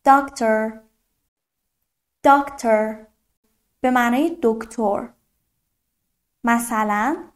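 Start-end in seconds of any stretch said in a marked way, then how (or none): 0.1-3.0 Doctor with a long "aa" in the first syllable; Doctor said singly, open drawn-out "aa"; long vowel. Shown as a demonstration. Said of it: "آی کشیده".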